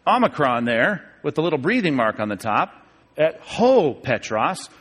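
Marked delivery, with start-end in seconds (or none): 3.2-4.7 "ho Petros" drawn out slowly with a rise; careful slow "ho Petros"; slow Greek. Shown as a demonstration. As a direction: isolate the Greek article "ho". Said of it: "that's the definite article".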